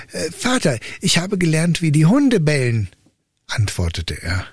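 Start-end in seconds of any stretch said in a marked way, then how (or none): 0.1-2.9 a hint of a timid boy, raised pitch; lightly voiced simple son. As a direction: answer like a dull, earnest youth. Son answers his father.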